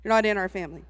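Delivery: low, dry family-rule delivery; telling her brother-in-law the family rule, low and dry; deadpan mean. Retold or imitated. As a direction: say it low and dry, a playful threat. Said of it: "And I'm like".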